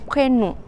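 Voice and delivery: "prénom" ending in a nasal O, not a Spanish O; "prénom" with a French nasal final vowel. Shown as a demonstration. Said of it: "es una O más nasal".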